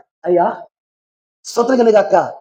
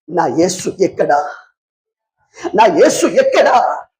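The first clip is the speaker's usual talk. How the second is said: slow, drawn-out acted lament; mild mock weeping; 4 semitones lower, slower than usual. Woman searching the tomb for Jesus, slow mild mock weeping. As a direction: imitate a grieving woman, stretching the words. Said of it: "ఏడ్చుకుంటూ వెళ్ళింది".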